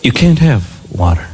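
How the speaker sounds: very low, deadpan parent voice; stern parent. Retold or imitated. Parent denies child a drink, mock stern. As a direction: refuse like an unbudging parent.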